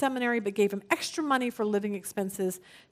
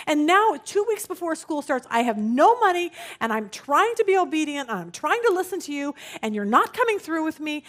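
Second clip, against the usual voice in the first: frustrated retold complaint, slightly raised; retold yelling; 3 semitones higher than usual. Broke student accusing God two weeks before school, mild mock yell. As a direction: act out an exasperated protest, short of shouting. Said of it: "he literally yells at God".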